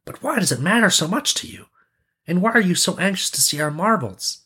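high, puzzled prince; high-pitched storybook prince; questioning prince. A narrator's reading. Prince questions the anxious crowd.

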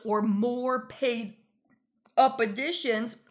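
words around a sip of tea; talking between sips of boba; while sipping a drink. Real, not acted. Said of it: "I'm drinking my boba tea".

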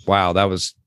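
dry, mock-impressed; sarcastic praise. Friend mocks uncle's boring story, deadpan sarcasm. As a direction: lay the fake admiration on dryly.

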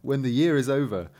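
measured storybook reading; story narration. A narrator's reading. Reader telling friends about an anxious father, story narration. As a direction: read the fairy tale out clearly. Reads a tale aloud.

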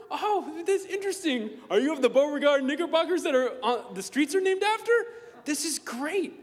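high, loud, laughing mock-posh welcome; hammed-up polite greeting. Meeting someone with a grand name, hammed-up gush. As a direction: gush over a fancy surname. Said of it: "you're like".

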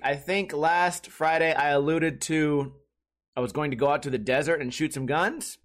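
usual speaking voice

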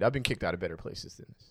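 put-on fast, slurred tipsy girl; drunk girl voice. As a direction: huff it out like a tipsy girl thrown out. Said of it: "You sound like the drunk girl getting kicked out".

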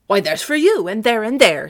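loud, punchy comeback; retaliating. Acted. Sebastian striking back at his attacker, forceful retaliation. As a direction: hit back on each phrase.

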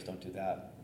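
ordinary talk, nothing marked

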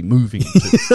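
put-on posh English, lightly done; mock posh voice. Co-host imitating his mate's technical rebuttal, teasing mock posh voice. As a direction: mimic your mate's rebuttal in a posh accent. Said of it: "say it in such a posh voice".

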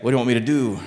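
a hint of low-pitched New York accent. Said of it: "I gave him a New York accent".

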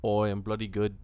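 casual put-on Aussie accent; mock Australian. Co-host says how he is, mock Australian. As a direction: answer in a hammy Australian accent. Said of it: "you are Australian today".

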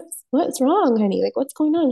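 high, coaxing mom-to-child voice, retold; concerned mom. Mom retells asking her anxious daughter, concerned high voice. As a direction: imitate a mother gently checking on her child.

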